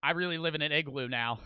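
low, subdued mutter to himself; mock-resigned, dropping in pitch; imagined glum realisation. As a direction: let it sink in, quiet and low. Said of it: "he's just gonna be like".

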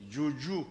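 "Juju" with the sound doubled; wrong doubled reading. Shown as a demonstration. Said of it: "il ne prononce pas".

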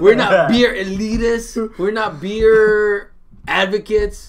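slow, drawn-out mock-snooty delivery; exaggerated cartoon intonation. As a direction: stretch each word out theatrically. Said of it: "why are you talking like this?".

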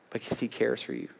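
normal talking voice

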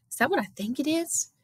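high, frightened little question; whimpering. A narrator's reading.

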